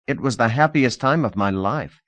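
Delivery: plain, unadorned sincerity; simply said. Acted. Thorby telling Lida about begging, simple and sincere. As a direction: state it simply, no fuss. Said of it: "he said simply".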